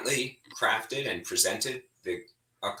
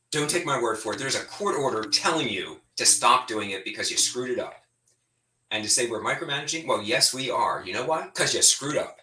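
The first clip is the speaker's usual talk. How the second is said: fired up; 2 semitones higher than usual. Real, not acted. Legislator scolding cabinet secretaries over micromanaging, fired up. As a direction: let the frustration drive it, real anger held in check. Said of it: "Sorry, still getting fired up".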